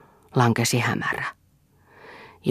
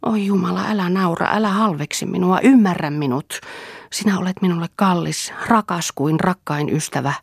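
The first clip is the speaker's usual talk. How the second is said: pleading; 6 semitones higher than usual. Acted. Selina pleads with Mirtja.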